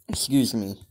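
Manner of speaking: breathy whisper, no voice; hushed aside; whispered excuse me. Real, not acted. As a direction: whisper a quick apology off-mic. Quiet apology aside.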